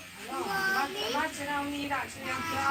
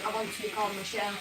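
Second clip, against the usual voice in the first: dopey deep voice; 3 semitones lower, 6 dB quieter, much faster than usual. Retold or imitated. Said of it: "in the deepest voice ever".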